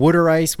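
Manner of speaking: "water ice" said as "wooder ice"; Delco-style "water ice", starting like "wood"; local pronunciation. Shown as a demonstration. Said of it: "but we call it".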